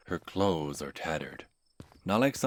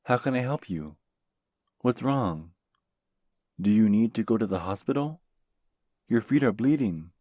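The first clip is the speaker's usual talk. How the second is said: alarmed; 6 semitones higher, 10 dB louder than usual. Acted. Worried stranger questioning injured woman.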